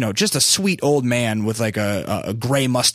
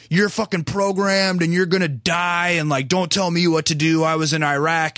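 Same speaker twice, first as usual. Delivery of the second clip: imitated yelling; 4 semitones higher than usual. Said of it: "yelling at this fucking sixty-seven-year-old dude".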